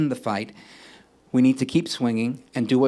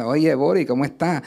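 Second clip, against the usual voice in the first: put-on Puerto Rican accent. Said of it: "it's a little bit different".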